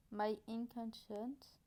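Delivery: very slow French-accented English. Shown as a demonstration. Vlogger trying a false friend, French accent. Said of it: "observez mon bel accent anglais".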